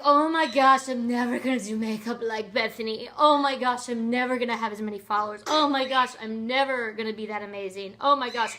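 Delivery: loud overwrought "oh my gosh" wails; mock despairing self-talk. Pretending to envy her friend Bethany, loud mock despair. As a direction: ham up a jealous, self-pitying rant. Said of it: "I could be like".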